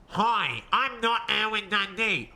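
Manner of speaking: lightly altered voice, a small put-on accent; put-on disguise voice. Shown as a demonstration. Streamer showing what a disguised character voice should sound like, lightly altered voice. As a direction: say it again slightly disguised, as if someone else. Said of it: "I'll play dumb".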